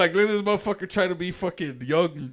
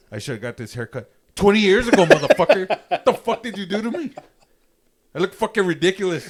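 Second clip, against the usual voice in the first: loud, higher retold rant at the barber; indignant outburst; 5 semitones higher, 8 dB louder than usual. Customer telling off the barber over his haircut, indignant. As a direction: let rip in exasperated disbelief.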